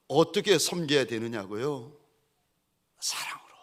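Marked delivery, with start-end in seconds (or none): 3.0-3.5 whisper. Real, not acted. Preacher whispers the answer.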